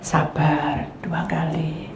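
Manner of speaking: slow whispered sabar. Shown as a demonstration. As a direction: breathe it out slowly. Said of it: "Sabarnya dua kali loh".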